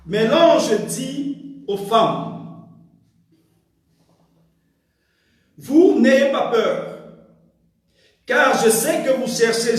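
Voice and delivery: measured, emphatic Bible reading with long pauses; scripture reading. Real, not acted. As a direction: read scripture aloud phrase by phrase. Lit le texte biblique. (lecture biblique solennelle et posée)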